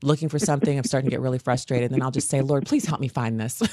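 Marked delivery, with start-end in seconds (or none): 2.4-3.6 mad. Retold or imitated. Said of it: "Just like that. Mad".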